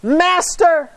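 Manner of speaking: high desperate call of Master; crying out. Acted. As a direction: call out to him over the storm. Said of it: "they cry out".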